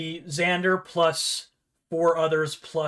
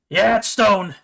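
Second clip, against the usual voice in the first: louder gruff dwarf voice; deadpan it, a bit raised; Baladar voice; 4 semitones higher, 9 dB louder, slower than usual. Acted.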